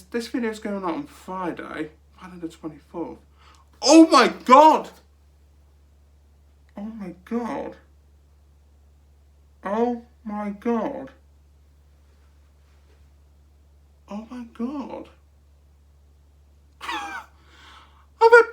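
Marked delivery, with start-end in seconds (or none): 3.8-4.9 loud, slow excited shriek; shrieking jackpot winner. Real, not acted. Finds date anniversary, shrieks. 6.8-15.1 slow, soft, stunned disbelief; stunned whisper-gasp. Real, not acted. Stunned repeats after shriek.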